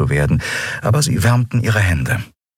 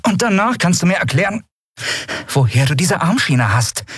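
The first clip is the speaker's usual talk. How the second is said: stern demand; 12 semitones higher than usual. Acted. Hooded woman demands answer.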